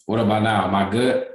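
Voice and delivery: glitchy distorted call audio; choppy connection. Real, not acted. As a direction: voice cutting out over bad Wi-Fi. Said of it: "Yeah, you still dis".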